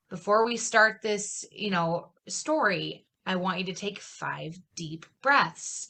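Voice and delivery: slow, soft, soothing bedtime-app voice; a light imitation of a meditation app voice; imitating calming narrator. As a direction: ease them in like a sleep story, slow and hushed. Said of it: "very calming, like, zoning kind of tone to their voices".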